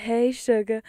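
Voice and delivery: lightly put-on Southern accent; bad Southern accent. Shown as a demonstration. Streamer recalls an old recording, shaky attempt at Southern accent. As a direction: try a sweet-talking Southern accent, badly. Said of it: "when you did the Southern accent".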